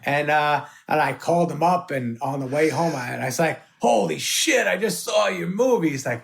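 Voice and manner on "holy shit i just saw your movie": higher-pitched excited gush; retold excitement. Comedian calling the director right after the film, excited. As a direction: blurt it out, thrilled, pitched up. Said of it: "I was so excited about everybody".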